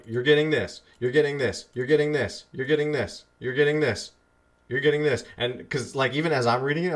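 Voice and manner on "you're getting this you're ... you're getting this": building, slightly louder chant of the same line; hyping yourself up. Shown as a demonstration. Webinar host hyping himself up while reading the offer, mildly excited. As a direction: pump yourself up one repeat at a time. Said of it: "you're hyping yourself up".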